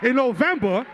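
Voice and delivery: high, pumped-up call to the crowd; hype man call. Real, not acted. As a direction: fire up the crowd. Hyping crowd at rally.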